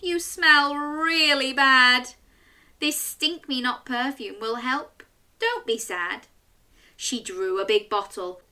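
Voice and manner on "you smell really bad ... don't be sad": put-on little girl voice. Chloe speaks to troll.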